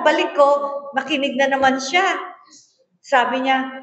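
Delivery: normal talking voice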